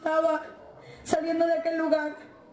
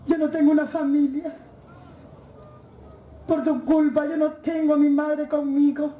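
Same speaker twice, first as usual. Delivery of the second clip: rising anger at a father's photo; angry reproach. Retold or imitated. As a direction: throw the blame at the photo in anger. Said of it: "con ira".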